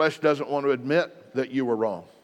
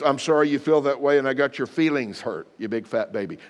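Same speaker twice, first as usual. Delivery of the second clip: mock apology. Shown as a demonstration. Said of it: "That is the wrong way".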